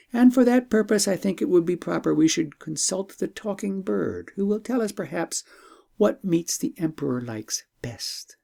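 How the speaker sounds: a hint of an eager young princess. Princess voiced in story.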